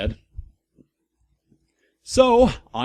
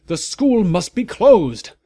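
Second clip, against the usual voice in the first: loud, higher and slow; angry shout; 7 semitones higher, 6 dB louder than usual. A narrator's reading. Umbridge demanding the school close, loud slow shout. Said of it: "she shouted angrily".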